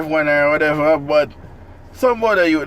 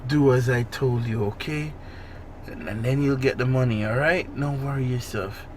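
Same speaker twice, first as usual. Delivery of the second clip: put-on Jamaican accent; 3 dB quieter than usual. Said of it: "in a Jamaican accent".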